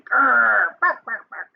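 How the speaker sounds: growl, then spoken barks; storybook dog growl and bark; imitated dog. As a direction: mimic a growling, barking dog. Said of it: "He's not saying".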